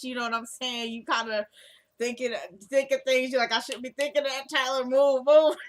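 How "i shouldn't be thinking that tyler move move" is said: high-pitched flustered fuss, building to a loud finish; playful mock scolding. Fan jokingly telling Tyler to move, mock-flustered. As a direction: jokingly shoo him away, louder and louder.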